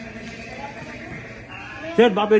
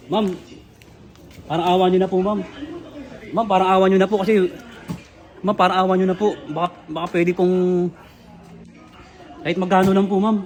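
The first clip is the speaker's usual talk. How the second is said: pleading; 4 semitones lower than usual. Retold or imitated. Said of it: "sinawuran na ako".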